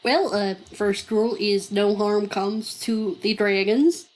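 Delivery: put-on lightly Southern-accented dragon seller. Seller explaining dragon race rules, Southern accent. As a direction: explain it with an unplanned Southern twang. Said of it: "I do not know where this accent is coming from".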